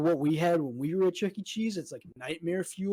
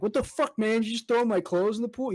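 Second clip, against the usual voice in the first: higher, accusing mock outburst; retold confrontation; 6 semitones higher than usual. To his friend, retelling confronting a guy in a dream, a higher accusing outburst. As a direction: confront the guy who dunked your clothes.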